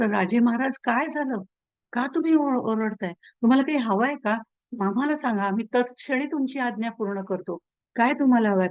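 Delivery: lightly acted concern for a master; anxious questioning. Guards to their king who woke shouting, mildly anxious.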